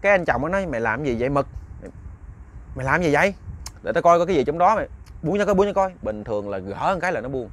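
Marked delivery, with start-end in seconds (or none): 0.6-5.9 raised-pitch impatient commands by the end; exasperated scolding. Acted. Husband tells his dog to let go, exasperated scolding. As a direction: scold a dog, getting more insistent.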